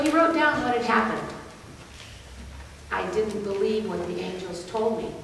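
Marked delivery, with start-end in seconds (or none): 2.9-5.1 lower, softer quoted confession; subdued confession. Retold or imitated. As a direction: read out his written admission quietly. Husband's written confession read out.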